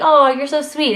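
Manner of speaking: mock condescending. Vlogger mimicking people who call her sweet, mock syrupy. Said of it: "It's, like, condescending".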